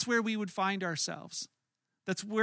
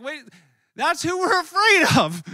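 high, loud disbelieving cry; shocked high-pitched protest; incredulous; 7 semitones higher, 11 dB louder than usual. Retold or imitated. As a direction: squeal it in alarmed disbelief. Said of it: "We're like".

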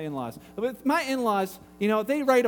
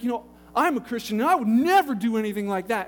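retold righteous indignation, NEVER louder; livid caller; 4 dB louder than usual. Pastor imitates angry caller defending himself, mildly indignant. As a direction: imitate an aggrieved man insisting on himself. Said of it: "he was pretty livid".

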